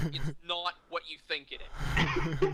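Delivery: slow, loud protest through laughter; amused, stretched-out retold objection; laughing denial. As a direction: break into laughter while insisting. Embarrassed denial, laughing while retelling.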